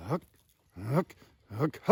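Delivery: single HOOK syllables, spaced apart; slow, separate HOOK grunts like call practice; slow clucking demo. Shown as a demonstration. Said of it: "let's give you a slow".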